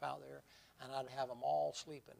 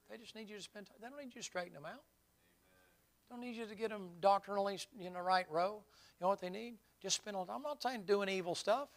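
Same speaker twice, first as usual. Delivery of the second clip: building preaching; 7 semitones higher, 7 dB louder than usual. Real, not acted.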